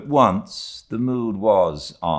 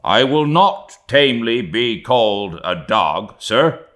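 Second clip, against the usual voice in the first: loud, raised-pitch defiance; emboldened; 5 semitones higher, 7 dB louder than usual. A narrator's reading. Second mate objecting to being called a dog, emboldened. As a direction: refuse indignantly, standing your ground.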